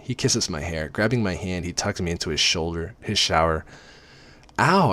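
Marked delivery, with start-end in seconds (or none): 4.6-4.9 short high, louder "Ow"; squeal. A narrator's reading. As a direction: squeal as if touched by scalding water. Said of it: "I squeal".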